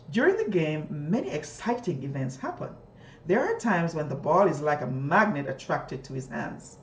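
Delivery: put-on expressive reading to children; storybook reading; shared reading aloud. Shown as a demonstration. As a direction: model fluent reading. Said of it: "I would do something like this".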